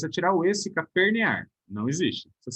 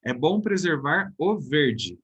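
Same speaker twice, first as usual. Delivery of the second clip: slow example reading; much slower than usual. Shown as a demonstration. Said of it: "Lá embaixo a mesma coisa".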